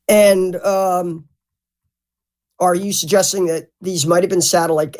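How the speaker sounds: measured, even interviewer questioning; very calm. Shown as a demonstration. Showing how the host could have asked his guest, calm. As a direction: put the question soberly, with hesitant pauses. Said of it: "he could have been very calm".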